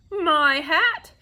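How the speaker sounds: loud, high, drawn-out protest; shouted outcry. A narrator's reading. Bug shouting back at the bee mid-fight, outraged shout. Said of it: "shouted the bug".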